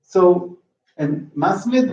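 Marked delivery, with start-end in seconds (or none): 1.4-1.9 "masmid" stressed on MAS, weak second vowel; first-syllable stress. Shown as a demonstration. Teacher giving the singular, "masmid" stressed on MAS. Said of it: "there is a shift in stress".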